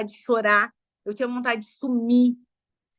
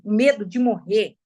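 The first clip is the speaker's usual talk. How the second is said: whispered. Real, not acted. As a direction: whisper the fear of dying. Confessando o medo de morrer. (sussurrado, quase sem voz)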